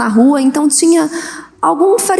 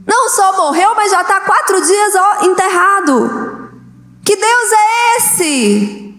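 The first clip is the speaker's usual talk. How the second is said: mocking taunt; 4 semitones higher than usual. Pharisee taunts grieving believer.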